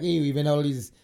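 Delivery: lightly imitated Canadian accent; mock Canadian accent. Joking that Canada's too nice, mock Canadian accent. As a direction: put on a mild Canadian accent. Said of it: "that was my C-, Canadian accent".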